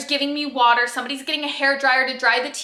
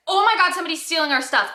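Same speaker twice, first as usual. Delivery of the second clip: retold alarm, quick and higher; alarmed cry; 5 semitones higher, faster than usual. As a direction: blurt out a mock-urgent warning. Assistant spots a theft, calls out.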